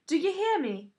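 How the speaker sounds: lightly voiced septa scolding; impatient septa. A narrator's reading. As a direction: demand an answer through the door.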